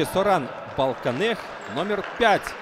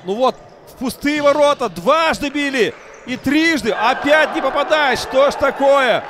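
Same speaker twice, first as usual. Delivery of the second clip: higher, louder, exasperated at misses; excited commentary; 7 semitones higher, 6 dB louder than usual. Real, not acted. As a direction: call the misses with rising frustration. Repeated missed shots at goal.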